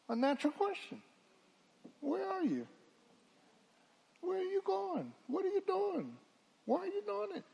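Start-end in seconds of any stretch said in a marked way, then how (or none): 2.0-7.4 high, probing questions of God; God questioning. Acted. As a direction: ask like a searching father. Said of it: "God is gonna ask you".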